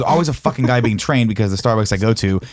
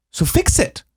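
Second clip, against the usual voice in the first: much higher, exasperated demand; mock irate demand; slower than usual. Customer ordering the manager to fix it. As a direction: jab it at the manager.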